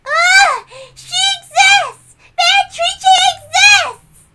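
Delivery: put-on high, slow, sing-song child crowing about the witch; a little girl thrilled the witch is real, drawn out slow; creepy child exclaiming; eerie child voice. Child gleefully proclaims the witch.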